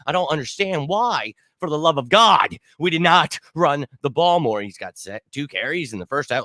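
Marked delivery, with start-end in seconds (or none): 0.1-4.6 higher-pitched, pleading exasperation; exasperated rant. Real, not acted. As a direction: plead in disbelief at the coaches. Exasperated rant about game plan.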